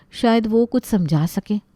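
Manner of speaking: unvoiced whispered aside. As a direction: say it under your breath. Muttered aside.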